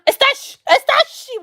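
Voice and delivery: high-pitched sputtering alarm; mock alarm. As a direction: squeak it out in comic disbelief. Acting out alarm at the yard.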